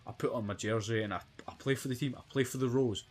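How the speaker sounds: heavy Glasgow brogue, lightly done; Glaswegian accent. Retold or imitated. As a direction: keep the thick Glaswegian accent. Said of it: "heavy Glaswegian accent like I'm trying to do".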